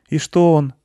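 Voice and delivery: put-on high-pitched child's question; curious boy voice. A narrator's reading. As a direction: ask it high like a little boy. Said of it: "спросил мальчик".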